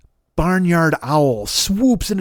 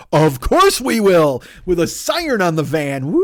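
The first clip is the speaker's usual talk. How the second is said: mock newsman; 4 dB louder, slower than usual. Mock news crew answering.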